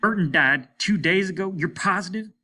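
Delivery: loud, high pressing question; frantic disbelief; urgent demand. A narrator's reading. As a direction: push him hard for the truth. Hart presses the dying man.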